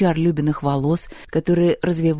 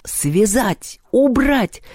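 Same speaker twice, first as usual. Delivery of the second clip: raised, curt orders; commanding; 6 semitones higher, much slower than usual. A narrator's reading. Перун orders his retinue to seize Мишка, commanding. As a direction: give each order as one sharp burst. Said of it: "приказал Перун".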